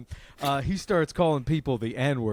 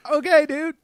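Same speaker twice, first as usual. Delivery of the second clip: sheepish okay; 13 semitones higher, 8 dB louder than usual. Retold or imitated. Backing down when stopped.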